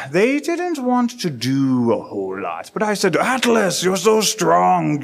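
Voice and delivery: lightly voiced boastful tale-teller; storyteller Graylin. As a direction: spin the yarn a bit slowly. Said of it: "Graylin, who's telling a story".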